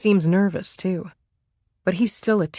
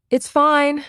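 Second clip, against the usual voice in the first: higher, louder nervous call; 10 semitones higher, 5 dB louder than usual. A narrator's reading. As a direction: call out across the yard, heart racing. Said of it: "she calls out to the officer".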